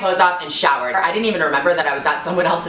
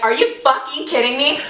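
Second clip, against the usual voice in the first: outraged; 8 semitones higher than usual. Retold or imitated. Outraged at the dog.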